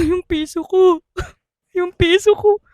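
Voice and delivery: a hint of a drunk whining over a coin; mock-whimper for the lost coin; lightly voiced drunk sobbing; drunk crying. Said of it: "Bigla daw umiyak yung".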